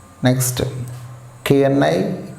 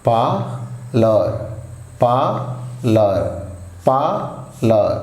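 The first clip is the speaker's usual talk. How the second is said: పార్లర్ said very slowly with no R sound, as పాలర్; slow model pronunciation; much slower than usual. Shown as a demonstration. Teacher slowly modelling పార్లర్ for students to copy. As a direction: stretch out పార్లర్ slowly, dropping the R. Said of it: "ఆర్ పలకరండి".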